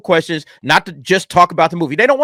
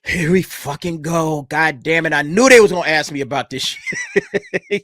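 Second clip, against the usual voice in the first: weary resignation; 2 semitones lower than usual. Retold or imitated. Actress hearing the Potter question, slow and fed up. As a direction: drag it out like the dreaded question finally came. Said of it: "She's just like".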